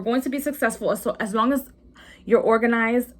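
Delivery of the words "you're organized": speaking through a burp; a burp breaks into the words. Real, not acted. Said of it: "excuse me, I'm, like, burping".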